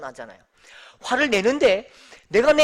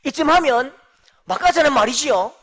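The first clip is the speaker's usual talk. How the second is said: louder imitation of an affronted challenge; exasperated retort; 3 semitones higher, 8 dB louder than usual. President confronts prosecutors who corner him, imitated exasperated retort. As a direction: throw it back as an incredulous challenge. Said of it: "하도 어이가 없어갖고".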